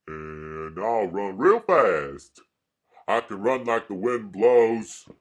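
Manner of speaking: Forrest Gump. Retold or imitated. Quoting a film character on running, Southern impression. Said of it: "we'll get Forrest Gump, who says".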